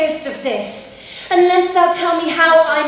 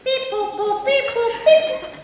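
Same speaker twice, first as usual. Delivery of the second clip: robot voice; 8 semitones higher than usual. Pretend. Robot noises mid-scene.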